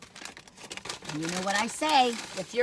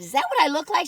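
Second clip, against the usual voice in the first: surprised; 8 semitones higher, 6 dB louder than usual. Retold or imitated. Retold shock at mirror.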